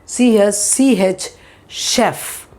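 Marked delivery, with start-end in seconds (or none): 1.7-2.5 chef said with a soft French sh; wrong sh sound. Shown as a demonstration. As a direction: demo the wrong reading, chef. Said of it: "It is not chef".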